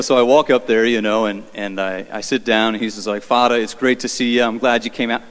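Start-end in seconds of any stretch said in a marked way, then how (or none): 3.2-5.2 lightly imitated Eastern US accent; a hint of an Eastern accent. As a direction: greet someone in a mild Eastern accent. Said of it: "I'm not doing the accent".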